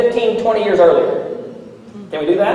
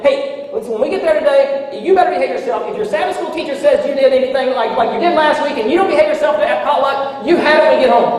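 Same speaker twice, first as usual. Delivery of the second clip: mock yelling dad; 6 semitones higher than usual. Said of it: "Dad is yelling at the kids".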